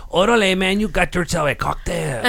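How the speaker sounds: put-on light Mexican accent, laughing. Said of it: "I gotta warm into it".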